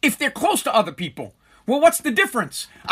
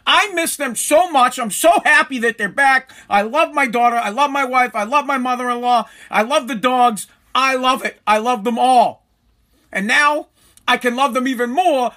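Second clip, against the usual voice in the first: overdone affection; 2 semitones higher, 3 dB louder than usual. Pretend. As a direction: play it big so the family can hear. Loud declaration for listening family.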